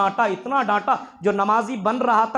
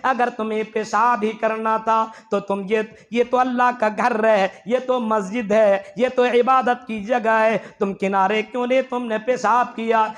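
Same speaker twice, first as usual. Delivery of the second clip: ordinary talk, nothing marked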